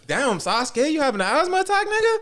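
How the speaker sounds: high mocking jeer. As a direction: tease him up high. Mocking character on screen.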